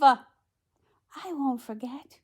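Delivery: drawn-out princess reply; Cinderella. A narrator's reading. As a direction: promise it lingeringly as the heroine. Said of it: "said Cinderella".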